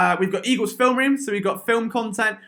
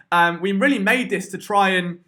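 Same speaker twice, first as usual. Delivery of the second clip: short of breath, talking through it; running out of air mid-sentence. Real, not acted. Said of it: "I'm running out of breath again".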